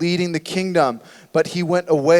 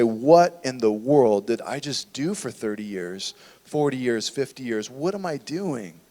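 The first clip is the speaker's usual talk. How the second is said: lower, fading to a near-hush; regretful lament; 6 semitones lower, 5 dB quieter than usual. Retold or imitated. Old man looking back on wasted years, fading lament. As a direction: sink into quiet regret, trailing away. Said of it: "look back on life and say".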